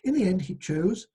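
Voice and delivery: measured storyteller reading aloud; folk tale narration. Acted. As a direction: read the tale out to listeners.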